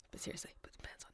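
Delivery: breathy stage whisper. Acted. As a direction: whisper it as a teasing aside. Aside to co-host, voice dropped.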